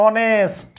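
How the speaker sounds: অনেস্ট drawn out, starting on "aw"; teacher dictating অনেস্ট with silent h. Shown as a demonstration. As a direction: slowly sound out অনেস্ট, no h. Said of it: "এইচের উচ্চারণ এখানে কি বলছে?".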